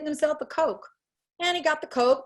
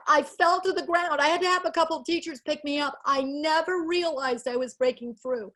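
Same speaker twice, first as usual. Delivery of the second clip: emotional; 4 semitones higher than usual. Real, not acted. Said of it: "Sorry to get so emotional".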